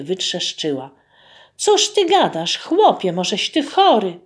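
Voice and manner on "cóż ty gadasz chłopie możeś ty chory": astonished wife. Acted.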